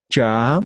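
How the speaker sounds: plain "cha" as in Spanish; simple CH. Shown as a demonstration. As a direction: say "cha" simply, no puff or pop. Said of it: "simples es igualito que el castellano".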